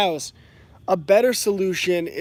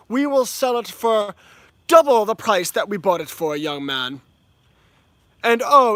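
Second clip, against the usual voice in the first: mock British older homeowner. Mocking a British homeowner lecturing a young man, light British accent building. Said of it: "my accent got more British as I went along".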